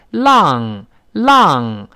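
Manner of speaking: "浪" as a too-wide lahng for English long; mimicking students' mistaken "浪"; vowel spread too wide. Shown as a demonstration. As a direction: overdo the spread ah in "浪", slow and falling. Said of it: "声音又太往两边拐了".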